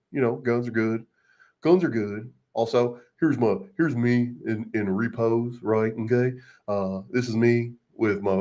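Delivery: lightly voiced cowboy parody; a hint of a self-satisfied cowboy showing off; mock cowboy. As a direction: play him mockingly, narrating his own snapshots. Voices reenactor captioning his own photos.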